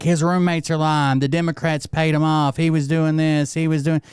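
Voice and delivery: mocking conspiracy crowd. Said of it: "the fucking people are like".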